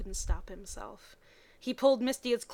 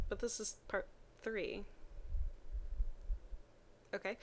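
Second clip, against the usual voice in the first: ordinary delivery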